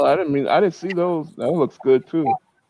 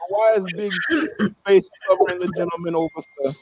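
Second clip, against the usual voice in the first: put-on Jamaican accent; 2 semitones higher, 4 dB quieter than usual. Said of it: "I always have to say it with an accent".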